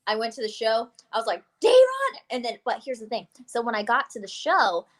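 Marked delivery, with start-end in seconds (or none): 1.6-2.2 high, loud yell of a name; retold calling out. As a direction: holler for your friend, much higher and louder.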